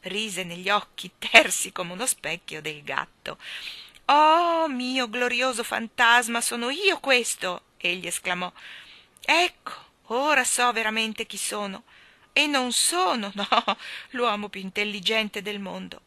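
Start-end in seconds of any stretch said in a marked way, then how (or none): 4.0-7.6 loud, higher, slow wonder; amazed exclamation. Acted. King seeing his new face in the cat's eyes, amazed. 9.2-16.0 lightly voiced elated king; joyful king. King realising who he really is, joyful.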